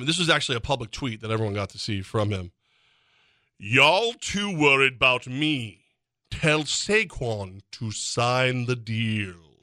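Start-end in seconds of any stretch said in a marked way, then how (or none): 3.6-9.3 very slow, very proper English accent. Giving a dramatic reading of a public tweet, in a very proper english accent. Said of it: "in like a very proper English accent".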